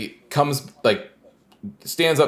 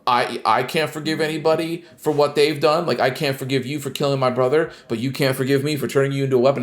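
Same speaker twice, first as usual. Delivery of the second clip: mock dismissive Naomi; 6 semitones higher than usual. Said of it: "this insane hand wave from her".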